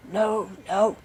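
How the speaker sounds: loud, firm refusal; merciless Bluebeard. A narrator's reading. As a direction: refuse the wife outright. Bluebeard refuses her last request.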